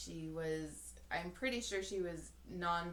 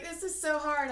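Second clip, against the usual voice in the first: lightly voiced old lady, higher and louder; old lady fretting; 8 semitones higher, 7 dB louder than usual. Old lady choosing fabric, lightly voiced fretting. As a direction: fret in a raised old-lady voice. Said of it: "this lady's like".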